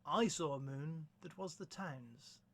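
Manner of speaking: measured, understated verse reading; gentle poem recitation. Acted. Presenter reading To Belloc to listeners, gentle measured recitation. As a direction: recite it evenly, with a pause after each line.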